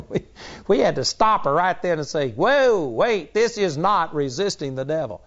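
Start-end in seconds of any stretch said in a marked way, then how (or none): 2.3-5.2 startled interruption. Retold or imitated. Stopping a woman mid-prayer.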